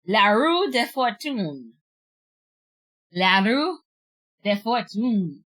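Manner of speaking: slow, La roue de fortune in careful French, roue as roo. Shown as a demonstration. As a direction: sound out La roue de fortune word by word, slowly. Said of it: "I'm trying to say it properly".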